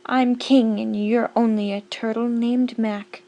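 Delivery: booming, self-important king; royal thundering. Acted. Yertle boasts to Mac, a mild royal thunder. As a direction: lord it over the turtles. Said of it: "his royal voice thundered".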